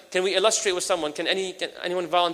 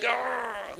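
angry growl; 5 semitones higher, 7 dB quieter than usual. Retold or imitated. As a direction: growl like a scary angry man. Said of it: "You know how angry you have to be".

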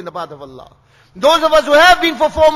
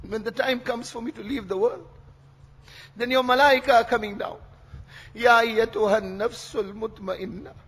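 hushed, solemn preaching. Real, not acted. Hushed telling of death, recites verse.

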